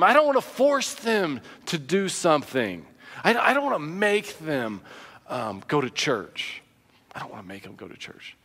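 mock the hands-off parent, fading out; a hint of a limp, noncommittal parent; passive parent.

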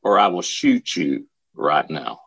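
low, slow threat; retold ultimatum, deliberate and low; menacing threat. Major's threat drops after the scream.

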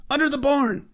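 high, loud urgent yell; scream. Retold or imitated. Yoren screaming where the trap is, a high urgent yell. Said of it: "he screamed".

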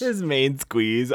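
drawn-out, amused his main squeeze; mock savoring. Host repeating the phrase to his co-host, amused and drawn out. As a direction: relish the phrase slowly with a laugh.

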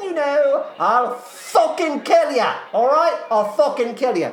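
high, indignant cockney threats; menacing demand. Acted. Eliza demands her money from a young man, angry cockney menace. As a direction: threaten him with theatrical fury.

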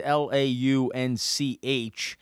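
letters spelled one by one; spelling it out. Shown as a demonstration. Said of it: "the spelling of that is".

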